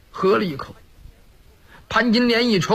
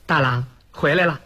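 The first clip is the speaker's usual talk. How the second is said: Pan Jinlian beaming; 3 semitones lower than usual. Acted. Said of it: "潘金莲满面春风迎上前来".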